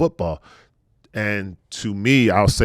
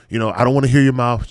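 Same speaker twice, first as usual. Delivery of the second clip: fast, louder, bossy mom order; imitating a strict mom, fast and louder; strict military mom; 4 semitones higher, 5 dB louder, faster than usual. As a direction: rattle it off like a stern drill-raised parent. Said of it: "brought up in the military".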